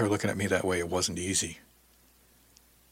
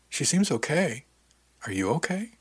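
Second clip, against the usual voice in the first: higher, lilting, tender check-in; gentle concern; 6 semitones higher than usual. A narrator's reading. Diane checking on her shipmate, gently concerned. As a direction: ask kindly, lifting the pitch into the question. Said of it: "she asked gently".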